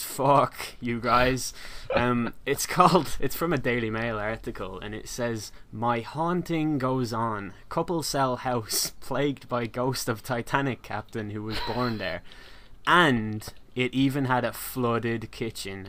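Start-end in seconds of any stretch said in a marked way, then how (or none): 5.7-15.9 slow, deliberate headline reading. Acted. Podcaster reading a ghost article to co-host, slow announcement. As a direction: read it out slowly as a tabloid headline.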